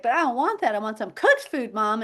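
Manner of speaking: put-on high, pouting child demanding cooked food; mock whiny daughter; whiny kid. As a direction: act out a picky little girl complaining. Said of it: "she is gonna be like".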